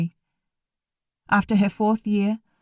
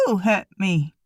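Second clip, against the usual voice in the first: squeaky try at casual. A narrator's reading. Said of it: "I tried to sound casual, but my voice squeaked a bit".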